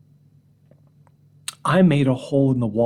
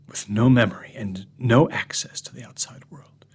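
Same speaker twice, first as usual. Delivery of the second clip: hushed menacing monologue. Acted. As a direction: whisper it like a secret. Sinister monologue held in hushed voice.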